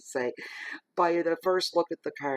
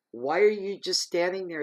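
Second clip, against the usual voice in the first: higher, louder indignant yell; demanding it of the boss; retold yell; 6 semitones higher, 6 dB louder than usual. Retelling yelling at her supervisor, loud. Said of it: "I'm yelling at my supervisor".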